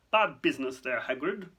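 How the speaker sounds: brisk, clipped official. Acted. Fudge addressing Hagrid on bad business, clipped. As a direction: say it short and clipped. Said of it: "in a rather clipped tone".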